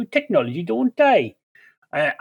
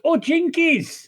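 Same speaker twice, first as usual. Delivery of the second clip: high, slow shouted exclamation; 8 semitones higher, slower than usual. Acted. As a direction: call it out, high and drawn out. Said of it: "I'll shout".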